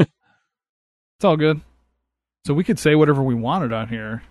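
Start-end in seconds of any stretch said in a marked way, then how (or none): 0.0-1.6 lazy, dragged-out reassurance; slow drawn-out. Pretend. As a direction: stretch every word out slowly.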